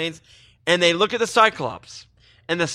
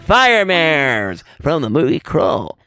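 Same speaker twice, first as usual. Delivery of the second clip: ad voice; 3 dB louder than usual. Pretend. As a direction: sell it like an eighties toy ad. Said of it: "That's my commercial for fire mares".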